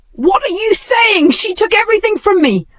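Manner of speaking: high, anguished protest; upset outcry. Acted. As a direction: cry out in disbelief. Emily screams inside, upset.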